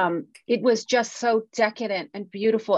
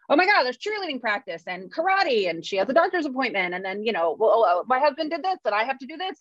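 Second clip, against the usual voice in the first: higher-pitched, running list of frets; retold overwhelmed rattle, pitched up; mock overwhelm; 5 semitones higher than usual. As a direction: reel off the chores in mock panic. Acting out overwhelm at home chores.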